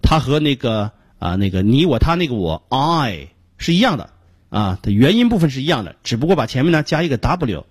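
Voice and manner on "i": "I" as a long open "ai"; sustained model "I"; lowered-tongue vowel. Shown as a demonstration. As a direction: drop the tongue and draw out "I". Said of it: "明显的下舌音".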